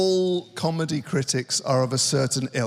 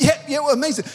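mock insincere praise; 9 semitones higher, much faster than usual. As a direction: gush without meaning it. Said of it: "You went".

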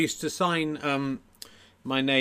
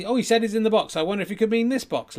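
high, loud mock-wondering patter; ventriloquist act; 8 semitones higher, 5 dB louder than usual. Ventriloquist wonders about this box, high stage patter. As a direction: wonder aloud for the children. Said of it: "here's my act".

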